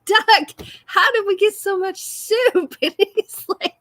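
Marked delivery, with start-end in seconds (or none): 0.0-2.8 retold exasperated question. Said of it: "I'm like".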